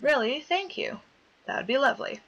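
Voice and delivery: a hint of a high sweet girl; lightly voiced sweet girl. Player lightly voicing Morishige's thanks to Mayu. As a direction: chirp the thanks like a sweet schoolgirl.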